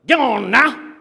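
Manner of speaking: in a Southern voice, urge them on; Southern, get on now; Southern urging. Shown as a demonstration.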